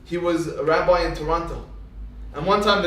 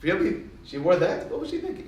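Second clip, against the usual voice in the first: mock blunt gossip. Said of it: "they'll be honest".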